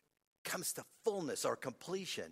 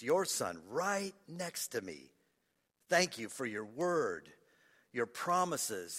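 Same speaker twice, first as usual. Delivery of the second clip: measured prayer with long pauses; heartfelt prayer. Real, not acted. Preacher reading his written prayer to God, heartfelt. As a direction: pray phrase by phrase, lingering on key words.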